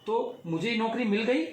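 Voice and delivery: high, eager disbelief; bursting with joy at the news; a young man hearing he got the job; overjoyed. A narrator's reading. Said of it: "Mayank खुशी से उछल पड़ा".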